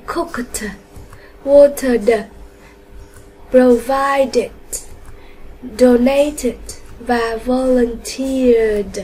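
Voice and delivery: "cooked" on t, "watered" and "volunteered" on d, "provided" and "donated" on "it"; careful -ed endings. Shown as a demonstration. Teacher reads out the answers, "cooked", "watered", "provided" with careful t, d, "it" endings. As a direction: separate each word and release its ending: "cooked" with t, "watered" with d, "donated" with "it". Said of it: "Như vậy cô có đáp án là".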